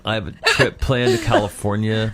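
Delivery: casual entitled applicant, laughing; mocking millennial. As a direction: list demands like they're owed. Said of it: "they're like".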